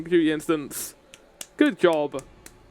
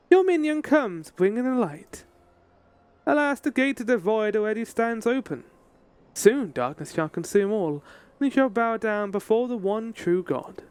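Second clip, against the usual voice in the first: higher, doom-laden prophecy; ominous villain voice; 5 semitones higher than usual. Acted. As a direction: intone like a dark cultist.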